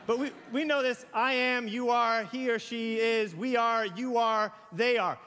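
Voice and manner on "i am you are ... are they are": reciting the verb forms one by one; conjugation drill. Shown as a demonstration. Pastor drilling the congregation on pronouns, recited. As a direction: chant the pronouns like a grammar lesson. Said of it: "Do you see a problem with this?".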